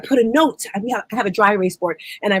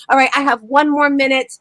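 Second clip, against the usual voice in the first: ordinary talk, nothing marked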